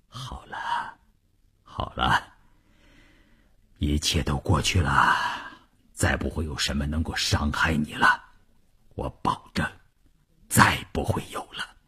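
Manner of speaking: hushed, low, soothing voice; tender, barely voiced reassurance; soft murmur. A narrator's reading. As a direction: comfort someone very gently under your breath. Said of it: "轻声地说".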